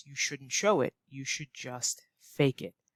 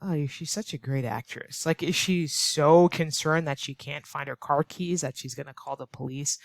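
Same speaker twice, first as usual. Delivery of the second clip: sarcastic remark. Acted. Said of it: "Or you might say".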